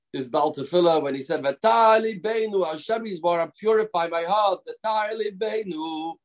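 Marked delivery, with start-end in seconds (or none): 1.4-6.2 mock passionate prayer. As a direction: imitate a cantor pouring his heart out. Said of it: "saying the words with great passion and emotion".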